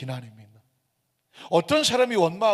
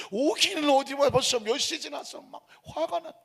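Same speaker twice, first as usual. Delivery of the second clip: higher, heated mock outburst; angry father; 8 semitones higher than usual. Father snapping at the nurse, raised and heated. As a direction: throw it back at the nurse like a fuming father. Father yells at late doctor.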